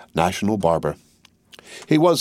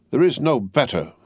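a hint of shrill Vengeance; 5 semitones higher than usual. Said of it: "in her shrill voices".

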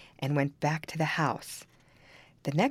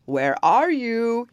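loud, slow, higher ogre call; 7 semitones higher, 7 dB louder, much slower than usual. Acted. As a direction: call out like a giant. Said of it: "he called".

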